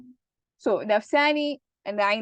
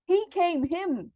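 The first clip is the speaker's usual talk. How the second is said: He said high; stress on He; 7 semitones higher, slower than usual. Shown as a demonstration. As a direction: lift the word He. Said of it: "I emphasized the person".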